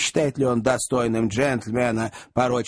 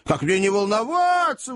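wailing; 7 semitones higher than usual. A narrator's reading. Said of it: "вопила вдова".

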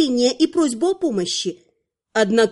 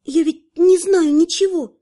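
frightened; 4 semitones higher, 3 dB louder than usual. Acted. Girl frightened.

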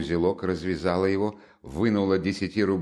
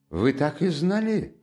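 quick pounce; 6 semitones higher than usual. A narrator's reading. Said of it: "подхватил Лужин".

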